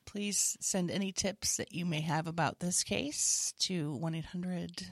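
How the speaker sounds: slow, subdued official request for tips; mock police appeal. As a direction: appeal to the public deadpan.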